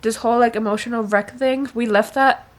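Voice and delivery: real giddy emotional rant; emotional outburst. Real, not acted. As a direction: pour out the overwhelmed feeling. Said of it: "And I'm, like, so emotional".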